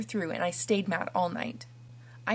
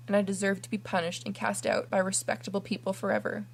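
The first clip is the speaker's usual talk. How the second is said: pleading. Acted. Kneeling orphan begs forgiveness.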